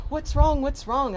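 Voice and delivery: high, loud worried cries; frantic schoolgirl what's wrong; alarmed teen girls. Retold or imitated. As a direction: call out in alarm.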